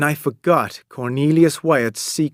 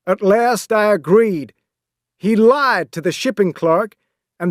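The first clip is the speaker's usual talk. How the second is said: captain; 5 semitones higher than usual. Acted. Captain's voice in story.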